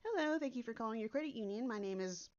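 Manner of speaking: quick bright call-center hello, pitch climbing at the end; chirpy phone agent reading the greeting; perky greeting. Shown as a demonstration. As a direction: sell the cheery service script. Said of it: "really, really, really perky with it".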